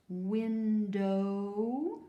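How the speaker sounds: "Window" slow, rising on the O; drawn-out long O. Shown as a demonstration. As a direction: sound out "Window" ending as in snow. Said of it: "There's that O sound".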